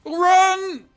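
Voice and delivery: high panicked yells; panicked shouting. Real, not acted. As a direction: yell in sudden panic.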